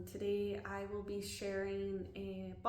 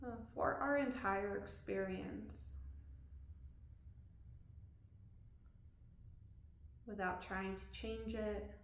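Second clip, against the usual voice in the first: calm body-scan guidance with long pauses; unhurried, leaving room to breathe between phrases; guided meditation; 3 dB quieter than usual. Real, not acted. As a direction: guide them gently through a body scan.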